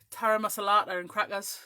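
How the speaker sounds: lightly mimicked accent of a friend; Michelle Johnson. Teasing a friend at trade shows, in a mimicked accent. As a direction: put on her accent for "tara masalata and crackers". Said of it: "I do her accent back at her".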